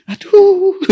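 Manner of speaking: high, pained aduh; a father's heart aching; anguished sigh. Retold or imitated. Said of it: "Hati saya".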